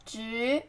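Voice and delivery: 职 rising in second tone. Shown as a demonstration. Teacher breaking down position for learners, rising tone on 职. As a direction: lift the pitch through 职. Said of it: "second tone".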